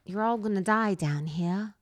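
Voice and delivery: put-on restrained retry at a British accent; mild, careful mock British accent; botched British accent. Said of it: "I'm trying to do different tones".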